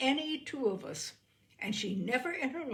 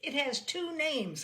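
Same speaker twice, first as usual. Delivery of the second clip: snapping; 6 semitones higher, 3 dB louder than usual. A narrator's reading. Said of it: "I snapped".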